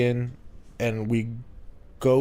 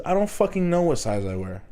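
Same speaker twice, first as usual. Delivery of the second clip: higher-pitched, incredulous comeback; exasperated retort; 6 semitones higher than usual. Retold or imitated. New hire to wardrobe lady who asked his size, exasperated. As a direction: retell it as an exasperated protest.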